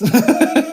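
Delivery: high, loud giggle; real high-pitched chuckle; delighted laugh. Real, not acted. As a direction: burst into a short, delighted laugh. Delighted by bilingual people in chat.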